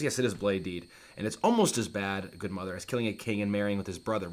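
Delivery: offhand, unmoved retelling of Hamlet; imitating no sorrow. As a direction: admit it without a hint of remorse. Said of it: "feels no sorrow".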